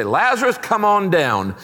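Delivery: high game-show call, Lazarus come on down; hammed-up quiz show announcer; game show host. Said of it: "today he would say".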